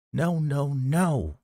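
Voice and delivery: high, rising panicked nos; terrified pleading. A narrator's reading. Woman pleads in panic as he forces her. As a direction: beg him in fright.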